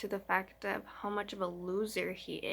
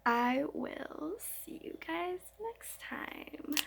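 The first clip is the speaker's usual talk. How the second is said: whispering; 6 semitones higher, 4 dB quieter, slower than usual. Real, not acted. Whispered sign-off.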